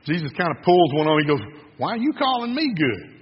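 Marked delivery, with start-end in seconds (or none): 1.8-3.1 high-pitched mock-puzzled question; puzzled challenge. Jesus challenges the man, acted.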